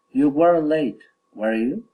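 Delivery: tag "were you" swings up; statement, then a climbing "were you"; rising tag question. Shown as a demonstration. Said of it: "Falling or rising intonation".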